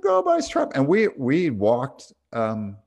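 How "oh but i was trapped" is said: put-on high whiny child protest, much higher and louder; a stubborn kid who won't let it go; imitating daughter. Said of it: "And she's like".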